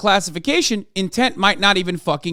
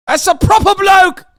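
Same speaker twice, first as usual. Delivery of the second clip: loud, higher mock-outraged rant; 8 semitones higher, 4 dB louder than usual. Real, not acted. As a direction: bellow it like a furious joke. Shouting rant about Britishness.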